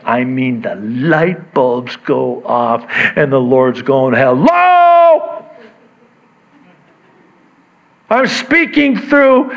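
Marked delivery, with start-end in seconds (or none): 4.1-9.5 high, loud hello to get attention; mock exasperated call. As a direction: call out as if nobody is listening. Acting the Lord calling for attention.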